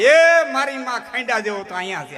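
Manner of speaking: long-drawn opening cry, high and loud, as a comic retelling; retold yell. Storyteller acting Manbhai's outburst at the cinema, mock yelling. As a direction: imitate a sudden loud, high holler. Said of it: "Manbhai રાડ નાખી".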